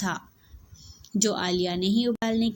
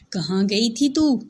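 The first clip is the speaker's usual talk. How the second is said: a louder, harsh demand from a bossy elder; harsh scolding; 6 dB louder than usual. Acted. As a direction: snap at the girl like a strict sister-in-law. Yasmin scolds Aliya harshly. (कड़क डाँटती जेठानी)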